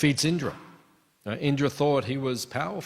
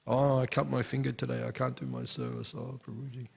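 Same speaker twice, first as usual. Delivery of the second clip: imitated pitiful excuse, fading softer; mock feeble whining; 4 dB quieter than usual. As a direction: make a feeble excuse, trailing away quietly. Mimicking a devotee making excuses.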